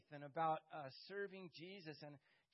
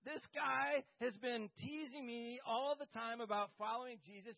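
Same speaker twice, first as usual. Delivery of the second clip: outraged protest; 5 semitones higher, 6 dB louder than usual. Retold or imitated. Pastor refusing God's prompt, outraged and much louder. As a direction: protest in full alarm at the very idea. Whole different conversation with God.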